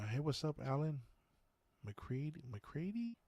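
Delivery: greeting out. Real, not acted. Livestreamer spots a viewer named Alan McCready, upbeat questioning greeting.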